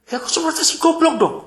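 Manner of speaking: high, fast mock complaint; complaining businessman. Mimicking the businessman grumbling about the lost taxi driver. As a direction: rattle it off like a fed-up passenger.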